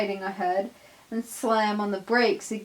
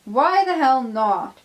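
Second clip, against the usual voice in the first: loud, raised challenge; angry demand; 4 semitones higher, 7 dB louder than usual. Acted. Peter Sam demanding why Donald refuses, loud and angry. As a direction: demand an answer, furious. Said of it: "Peter Sam demands".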